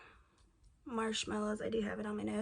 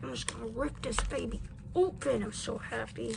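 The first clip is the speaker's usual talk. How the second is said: ecstatic; 3 dB louder than usual. Real, not acted. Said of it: "and I'm ecstatic".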